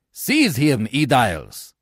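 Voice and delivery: loud order to seize; crying out. Acted. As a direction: call the guards sharply. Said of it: "cries Brutus".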